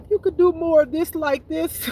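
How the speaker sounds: mock plea. Joking to God, high pitched.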